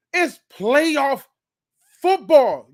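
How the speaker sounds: high, drawn-out hype on the big word; hyped. Real, not acted. Host hyping fans for playoff football, hyped. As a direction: announce it with pumped-up excitement.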